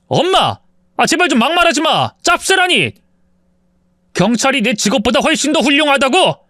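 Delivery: heated yelling. A narrator's reading. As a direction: yell at her to stop insulting.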